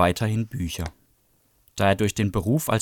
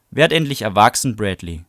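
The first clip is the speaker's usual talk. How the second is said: louder, fed-up scolding; annoyed rebuke; 6 dB louder than usual. Acted. Melinda scolding Bradley on the sidewalk, loud and fed up. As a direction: tell him off sharply.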